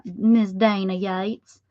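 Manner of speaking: put-on name drawn out slowly in a Southern accent; slow Southern lilt, rising to a question; Southern drawl. Crafter greeting Dana by her Southern-sounding name, Southern drawl. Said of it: "sounds like it should be a Southern".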